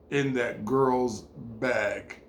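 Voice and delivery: slow, soft divine voice; voice of God. Retold or imitated. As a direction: speak slowly and softly as God. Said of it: "And God said to me".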